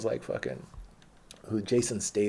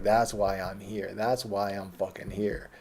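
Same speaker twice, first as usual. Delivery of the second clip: imitated worked-up bouncer; slower than usual. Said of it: "He was up".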